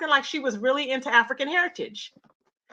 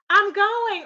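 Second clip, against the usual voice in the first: all crazy; 7 semitones higher than usual. Retold or imitated. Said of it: "all crazy".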